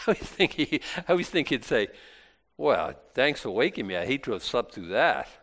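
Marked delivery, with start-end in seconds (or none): 2.6-5.3 dry, understated sarcasm; low-key mock gratitude; mildly sarcastic. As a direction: feign thanks for being woken, a little sarcastically. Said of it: "A little sarcasm there".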